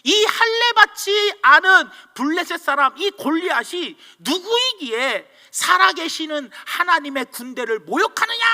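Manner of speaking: acting out an incensed David; retold heated indignation. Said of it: "열받아가지고 다 이야기를".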